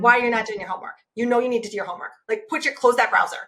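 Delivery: understated stern nagging; mildly critical, controlled telling-off; not-nice parent voice. Acted. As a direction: scold a child about homework. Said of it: "using that exact same voice".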